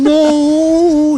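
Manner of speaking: high, loud cry of no; horrified shout. Acted. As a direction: scream it out in horror. Farmer screams in horror.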